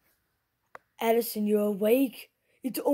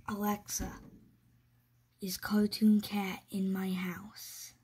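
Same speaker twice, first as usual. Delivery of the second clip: nervous night vlog whisper; 3 dB quieter than usual. Real, not acted. Whispering question to Alexa at night.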